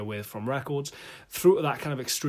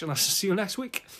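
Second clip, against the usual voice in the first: much higher, playful lilt; high sing-song sign-off; 9 semitones higher than usual. Acted. Second sign-off, pitched way up.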